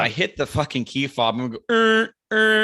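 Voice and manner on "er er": high, loud flustered stammering; panicked stammer. Retold or imitated. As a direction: sputter in a sudden panic. Panicked at the key fob.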